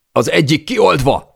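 high, loud yell; yelled report. A narrator's reading. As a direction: bellow the news to the crew. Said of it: "üvöltötte Alex". (magas hangon elüvöltött jelentés)

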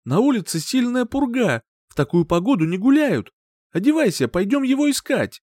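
high, loud, urgent; urgent command. A narrator's reading. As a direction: hurry him out the door. Mother urging search.

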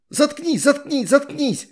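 high shriek repeated. A narrator's reading. Perila shrieking at Astrid while in the water, high. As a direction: shriek for her to shut up. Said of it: "завизжала Перила".

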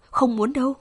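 fading, exhausted drawl; drawn-out last words. Acted. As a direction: stretch the last three words, too weak to finish them. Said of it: "Cô kéo dài ba từ cuối cùng". (kéo dài ba từ cuối, yếu ớt)

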